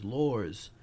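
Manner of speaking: New York accent, "laws" said like "lorz"; "laws" with a New York r-coloured vowel. Real, not acted. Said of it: "My New York accent comes out sometimes".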